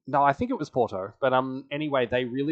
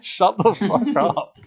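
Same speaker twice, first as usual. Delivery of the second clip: mock angry snap; 9 semitones higher, 7 dB louder, slower than usual. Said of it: "And France is like".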